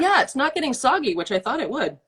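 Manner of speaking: talking through a mouthful of popcorn; mouth full. Real, not acted. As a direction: speak with your mouth full. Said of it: "Now I'm talking with my mouth full".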